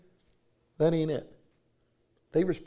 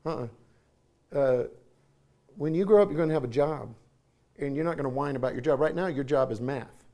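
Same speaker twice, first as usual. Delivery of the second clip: quoting wife; 2 semitones lower than usual. Retold or imitated. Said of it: "my wife will say".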